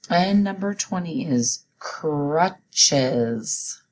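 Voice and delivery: very slow, drawn-out announcement; slow dictation. Shown as a demonstration. Teacher announcing the last spelling word, slow. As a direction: stretch the words out. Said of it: "Say it with me".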